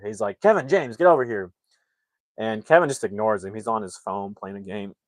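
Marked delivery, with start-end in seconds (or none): 0.4-1.5 loud, raised retold dad call; calling over. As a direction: imitate a dad summoning his sons. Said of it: "he calls his sons over".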